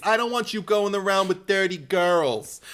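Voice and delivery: Brooklynese Mrs Bates. Retold or imitated. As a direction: coo then scold like an overbearing mother. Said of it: "a Brooklynese Missus Bates".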